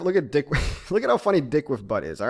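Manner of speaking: amused, a real giggle breaking into the words; cracking up. Real, not acted. Host showing viewers a silly meme, cracking up. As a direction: start it, laugh, then restart through amusement.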